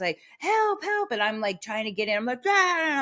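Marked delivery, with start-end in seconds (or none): 0.4-1.1 mild mock yell. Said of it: "screaming at the top of our lungs". 2.5-3.0 mock scream. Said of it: "I'm screaming".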